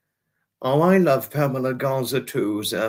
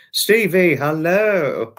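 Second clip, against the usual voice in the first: louder, higher sing-out hello; excited greeting; 4 semitones higher, 5 dB louder, much slower than usual. Real, not acted. Greeting Stevie arriving in the chat, excited call.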